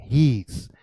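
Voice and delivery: "He's" said as a single syllable; contracted form. Shown as a demonstration. Teacher answers how "He's" is pronounced, contracted form. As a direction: demonstrate "He's" with the two words merged. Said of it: "इसकी pronunciation आप क्या करेंगे?".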